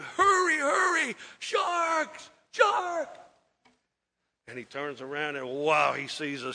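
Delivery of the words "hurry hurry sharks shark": high shouted alarm; screaming warning. Retold or imitated. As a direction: yell the warning as the shark closes in. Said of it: "they're screaming at him".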